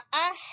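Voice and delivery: اہ with a long mid-throat h. Shown as a demonstration. Teacher repeating for students, mid-throat h ending اہ. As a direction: finish اہ on air squeezed from mid-throat. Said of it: "وسط حلق۔".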